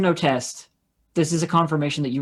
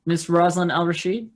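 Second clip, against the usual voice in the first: put-on Russian accent; 3 semitones higher than usual. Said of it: "in a Russian accent, I say".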